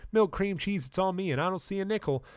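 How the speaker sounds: high-pitched aggrieved cow character; high voice of a put-upon animal; complaining cow. Acted.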